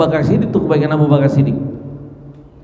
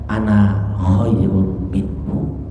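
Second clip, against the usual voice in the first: slow, lower, proud declaration; arrogant Iblis; 5 semitones lower, much slower than usual. Retold or imitated. Iblis refusing to bow to Adam, slow and haughty. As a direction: draw it out with arrogance. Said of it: "iblis bilang apa?".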